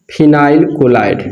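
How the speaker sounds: phenyl chloride said very slowly, each part apart; slow, spelled out. Shown as a demonstration. Teacher drilling the common name to students, slow and deliberate. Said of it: "क्या बोलेंगे?".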